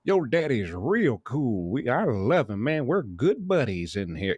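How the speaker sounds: mock the clueless caller, high; dopey inmate voice. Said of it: "it's this idiot".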